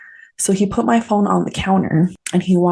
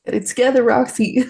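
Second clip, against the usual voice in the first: tearful, higher-pitched self-talk; emotional self-scolding; 6 semitones higher than usual. Real, not acted. Telling herself to get it together, choked up. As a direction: pull yourself together through real tears. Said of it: "I just get so emotional".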